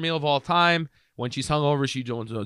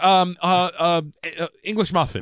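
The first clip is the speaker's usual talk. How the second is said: flustered; 4 semitones higher than usual. Retold or imitated. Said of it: "freaks out".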